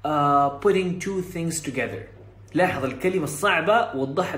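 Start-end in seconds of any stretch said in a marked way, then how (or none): 0.1-2.0 very slow, spelled-out English for beginners; slow clear explanation. Retold or imitated. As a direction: explain it slowly like a learner's podcast. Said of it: "ففي البرنامج الصوتي يقول لك".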